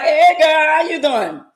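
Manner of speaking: high, loud fake-sweet hello; mock friendly greeting. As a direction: gush a phony girlfriend hello. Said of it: "I'ma be like".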